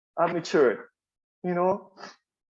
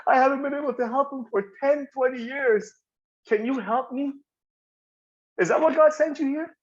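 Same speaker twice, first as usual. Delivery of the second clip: imitating a crying woman, pitched higher; retold tearful plea; 5 semitones higher than usual. Client confides about her alcoholic husband, mildly tearful pleading. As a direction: plead for help, high, a touch tearful. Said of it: "this lady starts bawling".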